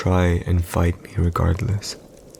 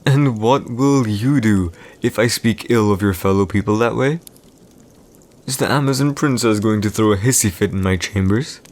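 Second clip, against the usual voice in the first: taunting captor; 2 semitones higher than usual. Acted. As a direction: taunt the captive princess with a rising question. Villain taunts captive Amazon bride.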